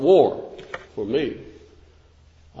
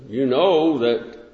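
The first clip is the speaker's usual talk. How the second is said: normal talking voice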